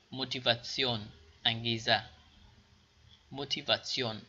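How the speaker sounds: موتیواسیون said mo-ti-va-TSION; teacher drill; German tion. Shown as a demonstration.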